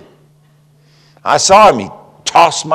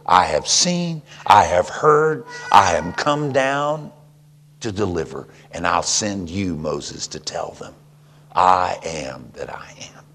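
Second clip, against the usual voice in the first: voice of God; 5 semitones lower than usual. Acted. Preacher reading God's words to Moses, fading. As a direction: fade God's words to near hush. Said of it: "and he says".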